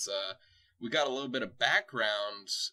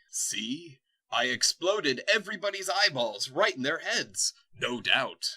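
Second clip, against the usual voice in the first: gloating villain; 4 semitones higher, 4 dB louder than usual. Acted. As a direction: savour each word like a smug tyrant.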